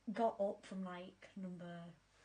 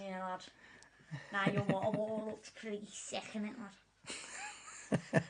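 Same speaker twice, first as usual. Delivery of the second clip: put-on Scouse patter; playful imitation of a Scouse accent. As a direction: chat like a Liverpool lad. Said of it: "In a Scouse accent".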